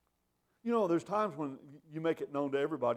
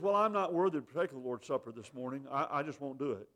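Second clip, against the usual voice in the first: imitating a reluctant member; 4 semitones lower than usual. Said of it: "So somebody says".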